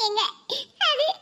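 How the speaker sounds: halting, tearful start. Acted. Wife struggling to explain to husband, tearful. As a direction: falter through tears. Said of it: "திடீர்னு உட்கார்ந்து அழுதுகிட்டு இருக்கா?".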